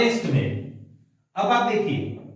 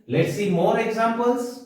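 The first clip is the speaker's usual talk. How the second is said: slow announcement; 3 semitones higher, much slower than usual. Shown as a demonstration. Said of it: "teacher slowly announcing examples".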